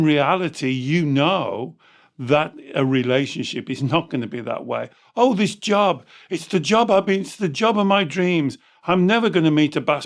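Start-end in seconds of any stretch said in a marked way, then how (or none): 5.2-10.1 higher, eager dream-job fantasy; mock gushing. Coach mimics someone thrilled by a dream job, mock gushing. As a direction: play up naive delight at a new job.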